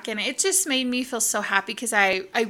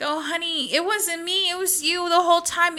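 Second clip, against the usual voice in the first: tender reassurance; 7 semitones higher than usual. Retold or imitated. Stylist reassures tearful client.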